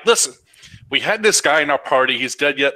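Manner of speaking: a touch of frustrated insistence. Acted. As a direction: make your case with some irritation. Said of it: "I get a little frustrated".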